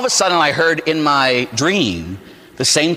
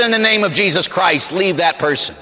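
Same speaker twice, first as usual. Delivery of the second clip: higher-pitched, mildly exasperated exorcist's order; insistent repeated command; 3 semitones higher than usual. Retold or imitated. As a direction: insist on it, raised pitch easing off. Repeats exorcism command after being laughed at.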